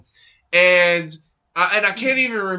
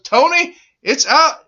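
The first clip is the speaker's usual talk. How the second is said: building announcer call; 5 semitones higher than usual. Retold or imitated. Commentator telling Tony the kick is good, building to a shout. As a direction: build it like a field goal call. Commentator calling a field goal.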